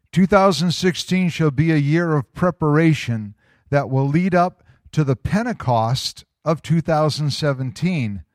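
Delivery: emphatic, measured read-aloud; deliberate reading. Real, not acted. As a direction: read it out to the congregation, phrase by phrase. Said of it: "gonna read it kinda slow".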